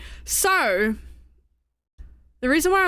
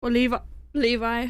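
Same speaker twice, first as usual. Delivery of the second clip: talking through hiccups; speaking with the hiccups; 3 semitones lower, faster than usual. Real, not acted. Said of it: "Sorry, I have the hiccups".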